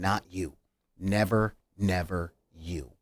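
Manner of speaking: a hint of the Punisher choking up; tearful Punisher. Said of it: "breaks down in tears going".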